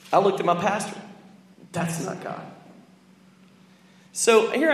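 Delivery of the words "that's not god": unvoiced whisper in church; whispered aside. Young preacher whispering to his pastor in the pew. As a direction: whisper it to the pastor beside you.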